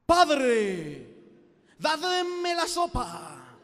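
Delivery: booming, slow, overly solemn request; grand mock-biblical address to dad; mock archaic formality. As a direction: ham up a lofty old-fashioned voice. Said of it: "le decís".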